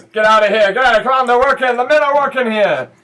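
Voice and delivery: bossy mom calling out over noise; shooing mother. Acted. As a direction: herd the kids out at full volume. Mother shepherding the kids out.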